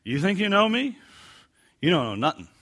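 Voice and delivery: brash New York challenge; New York accent. Shown as a demonstration. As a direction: challenge them like a New Yorker. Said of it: "I added the New York accent there".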